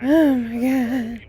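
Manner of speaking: 1 stunned whisper. Real, not acted. Overwhelmed by the bombing.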